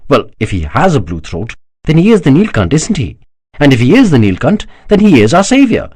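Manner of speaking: high-pitched, rising urgency in the argument; heated insistence. A narrator's reading. Daksha insists to Kanakla that Shiva is their savior, heated. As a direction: argue your case with mounting fervour.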